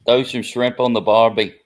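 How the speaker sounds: a jokey Aussie greeting; Australian accent. Pretend. Host asks the speaker to read a fan comment, in a mock Australian accent. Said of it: "read their comment with your Australian accent".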